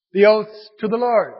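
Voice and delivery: "oaths" and "to the Lord" punched out to show what counts; misplaced emphasis. Acted. Preacher repeating the leaders' loophole, pointed stress on "to the Lord". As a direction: lean pointedly on "Lord" as the key word. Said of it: "put the emphasis on the wrong syllable".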